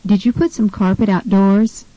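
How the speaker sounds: "outdoors" stressed on DOORS; second-syllable stress. Shown as a demonstration. Tutor models a carpet question, stress on DOORS in "outdoors". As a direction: ask it with the weight on the end of "outdoors". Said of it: "use the correct stress".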